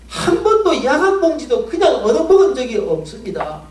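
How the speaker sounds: a pastor cries out against God, why us; anguished complaint to God. Retold or imitated. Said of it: "하나님께 원망이 나가기 시작합니다".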